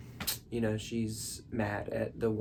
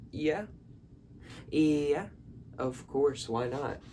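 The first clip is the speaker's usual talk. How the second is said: higher, brighter welcoming yes; eager auntie; 4 semitones higher than usual. Retold or imitated. Aunt inviting the girls over, in a higher eager voice. Aunt's enthusiastic reply.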